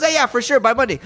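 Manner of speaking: high, giggly breezy impression; mock offhand certainty, laughing; laughing imitation. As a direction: laugh through a casual promise.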